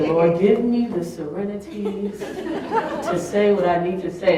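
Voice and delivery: prayer. Retold or imitated. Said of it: "I said".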